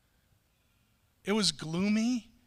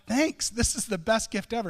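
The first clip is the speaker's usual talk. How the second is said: louder, hammed-up gushing thanks; overdone mock excitement; 2 semitones higher, 4 dB louder than usual. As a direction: oversell the gift like it's a joke. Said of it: "You don't have to make fun of me now".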